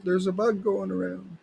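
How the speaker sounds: high-pitched mock Southern Ontario voice; Southern Ontario accent. Local guy spreading word of a bug, mock Southern Ontario accent. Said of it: "That's my best Southern Ontario accent".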